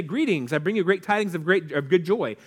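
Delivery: lightly hammed-up old-fashioned announcement; a touch of a pompous herald; mock formal. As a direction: poke fun at stiff scripture wording. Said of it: "We don't say".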